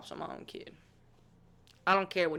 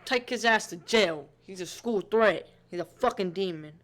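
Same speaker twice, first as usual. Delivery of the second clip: angry. Real, not acted. Viewer raging at the offender.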